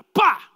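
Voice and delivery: loud slapping thud imitated; sharp mock thud of a body hitting the floor; smack sound. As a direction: spit out a sharp smack noise. Man thrown to the ground.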